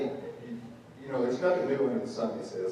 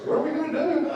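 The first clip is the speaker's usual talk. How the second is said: Moses crying out; 4 dB louder than usual. Retold or imitated. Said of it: "Then he gets in".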